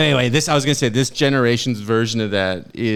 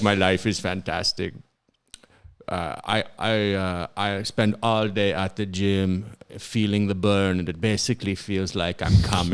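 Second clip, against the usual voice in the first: put-on drifting Schwarzenegger accent; 3 semitones lower, 3 dB quieter than usual. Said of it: "He's fully Jamaican now".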